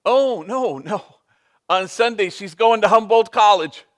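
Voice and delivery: high, loud burst of proud joy; excited proud father. Retold or imitated. Bandit telling the priest his daughter's college news, excitedly. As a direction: blurt it out like a dad who can't contain himself.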